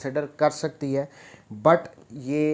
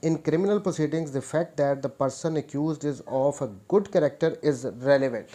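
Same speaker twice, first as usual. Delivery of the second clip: slow, deliberate dictation of the law text; reading the statute; much slower than usual. Shown as a demonstration. Law teacher reading the act aloud to students, slow dictation pace. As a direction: spell it out word by word so students can note it down.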